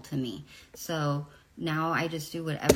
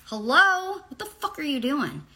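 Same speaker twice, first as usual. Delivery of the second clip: retold shocked yell; 10 semitones higher, 6 dB louder than usual. Confronting photographer with hands down pants.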